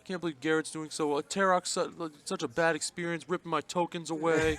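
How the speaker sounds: high whiny gripe about the game; complainer voice. Acted. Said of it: "I like your complainer person voice".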